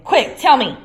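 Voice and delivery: high, loud demanding; urgent caretaker. A narrator's reading. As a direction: hiss at the poltergeist, hunting. Filch voice.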